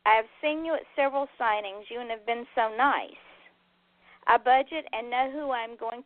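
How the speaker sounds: earnest letter reading to the audience; host reads a fan's letter on air. Acted.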